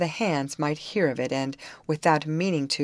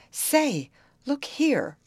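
high-pitched mild bluster; 10 semitones higher, much slower than usual. A narrator's reading. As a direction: try to throw your weight around. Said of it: "blustered the second man".

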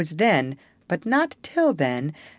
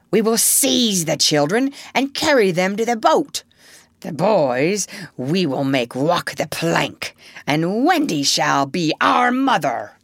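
scheming pirate captain; 4 dB louder than usual. Acted. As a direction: relish every word of the plan. Hook plotting kidnapping.

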